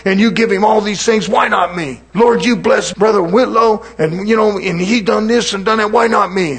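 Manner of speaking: loud, high, whiny grievance at God; complaining prayer. Pretend. Preacher on his platform complaining to God, loud and high. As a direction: play a jealous preacher moaning to God from the pulpit. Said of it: "if I got up here on my platform and I said".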